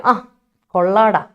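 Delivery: sarcastic "കൊള്ളാടാ", drawn out and a little slow; ironic praise. Shown as a demonstration. Teacher demoing sarcastic praise to the class, slow mock approval. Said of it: "അത് negative tone വെച്ചിട്ടായിരിക്കും".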